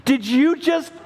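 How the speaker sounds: dad half shouting in disbelief at son; retold disbelief. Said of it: "call Isaac".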